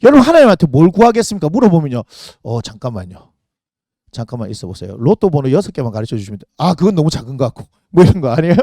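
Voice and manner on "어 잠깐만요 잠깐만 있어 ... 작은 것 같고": low, soft, thinking aloud; hesitant muttered wish. Acted. Congregant mulling one wish to ask of God, hesitant mutter.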